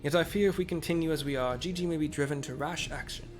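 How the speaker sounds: lightly voiced old man; a hint of a frail elder; old people voice. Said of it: "Doing the old people voice".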